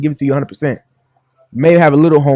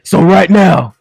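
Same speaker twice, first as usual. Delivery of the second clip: Bishop D H Jakes sermon; 2 semitones higher than usual. Pretend. Bishop preaching to the audience, sermon cadence. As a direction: preach the shiny-car parable. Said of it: "Bishop D H Jakes".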